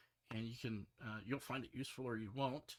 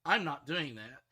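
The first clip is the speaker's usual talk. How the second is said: fed-up defiance; 6 dB louder, slower than usual. Retold or imitated. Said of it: "so I said".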